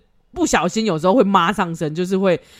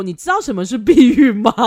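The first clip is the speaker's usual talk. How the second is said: mom, laughing; 3 semitones higher, 7 dB louder than usual. Retold or imitated. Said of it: "然后他妈妈竟然直接说".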